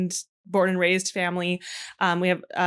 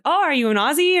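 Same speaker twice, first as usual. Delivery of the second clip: mocking quote, much higher and louder; imitating an asker; 8 semitones higher, 9 dB louder than usual. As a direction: play the clueless stranger asking. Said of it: "when someone says".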